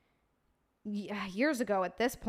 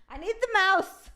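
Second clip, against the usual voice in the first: high, laughing whine; high laughing plea; 9 semitones higher, 3 dB louder than usual. Real, not acted. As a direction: laugh through it, a little desperate. Laughs while hunting for the mouse.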